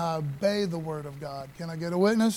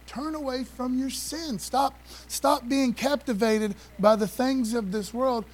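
higher, slow, emphatic preacher's rebuke of sinners; stern James rebuke; 4 semitones higher, slower than usual. Retold or imitated. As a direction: lay down the law like the apostle, slowly.

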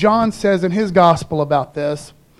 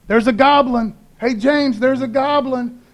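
mock calm disciples; 4 semitones higher than usual. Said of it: "now they're cool. They're like".

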